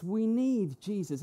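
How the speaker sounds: slow, emphatic plea of real need; mean every word, leaning on NEED; heartfelt need. Acted. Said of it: "It's not like we need Jesus as in".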